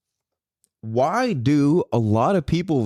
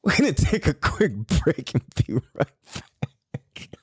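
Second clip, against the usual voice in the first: whispered announcer aside. Pretend. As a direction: whisper the break like a secret.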